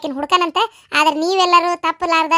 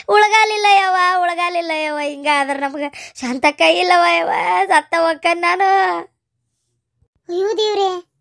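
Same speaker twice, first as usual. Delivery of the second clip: despairing wail. Acted. Woman fearing black magic laments to Shantakka, despairing wail. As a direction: moan as if doomed.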